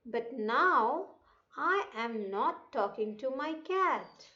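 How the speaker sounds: measured phrase-by-phrase classroom reading; read-aloud lesson. Shown as a demonstration. Teacher reading a story for children to repeat, careful read-aloud. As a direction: read it out deliberately, pausing between phrases. Reads passage aloud to pupils.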